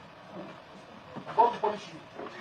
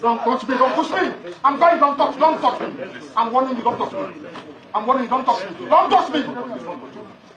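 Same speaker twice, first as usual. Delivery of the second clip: angry warning. Real, not acted. Defendant resisting being removed.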